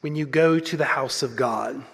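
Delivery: measured, solemn Bible reading with pauses between phrases; scripture reading. Acted. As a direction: read the passage aloud to a congregation. Reads scripture aloud to congregation.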